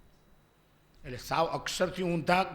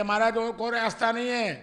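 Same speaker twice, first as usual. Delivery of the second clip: a bit louder and higher, pressing; urgent insistence; 4 semitones higher, 5 dB louder than usual. Retold or imitated. Village boy insisting the monk must jump, urgent warning. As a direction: insist there is no other way.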